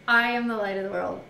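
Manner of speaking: declaring to the crowd at the feast; proclaiming. Acted. Quoting Yeshua at the feast.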